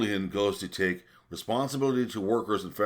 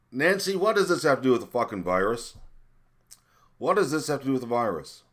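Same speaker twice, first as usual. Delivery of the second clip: louder, higher furious demand; shouting accusation at Democrats; angry shout; 5 semitones higher, 7 dB louder than usual. Real, not acted. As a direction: yell it at Nancy.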